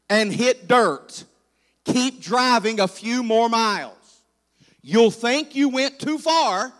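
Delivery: slow, drawn-out directions; unhurried country direction-giving; reciting country directions. Retold or imitated. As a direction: spell out the route slowly, phrase by phrase. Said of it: "The directions to our first church included".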